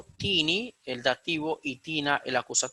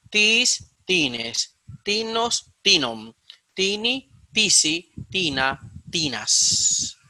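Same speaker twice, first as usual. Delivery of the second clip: emphatic recitation; 5 semitones higher, 4 dB louder, much slower than usual. Shown as a demonstration. Reciting the declension paradigm aloud.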